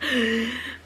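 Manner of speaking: sharp gasp for air; breathless gasp. Real, not acted. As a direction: catch a quick breath. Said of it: "forgive me if I'm a little bit, like".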